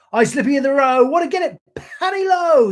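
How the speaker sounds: high put-on Indian accent, loud. The poem's soldier mocking Gunga Din's words, in an Indian accent. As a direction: voice the water-carrier in an Indian accent. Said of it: "attempt at an Indian accent there".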